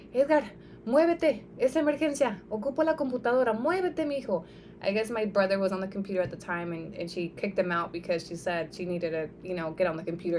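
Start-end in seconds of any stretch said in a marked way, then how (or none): 0.1-4.4 imitating a frantic mother yelling, higher and louder; mother's panicked yelling. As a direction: shout at the brother to move off the computer, urgently. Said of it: "the panic in her voice".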